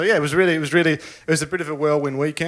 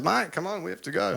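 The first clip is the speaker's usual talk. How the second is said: put-on light Israeli accent, a bit higher; Guy's Israeli accent; 6 semitones higher, 5 dB quieter than usual. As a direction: Israeli accent, urging a friend to hurry. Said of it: "You doing Guy's Israeli accent is classic".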